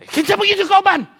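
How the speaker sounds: spring the question to startle; teacher startling. Retold or imitated. Teacher interrogating. (kusog nga pangutana sa maestro)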